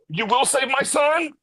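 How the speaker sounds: high, slow hammed-up wail; fake-sob it way up high; mock crying. Reviewer mocking Lex's crying father, in a hammed-up falsetto wail. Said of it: "and he's crying".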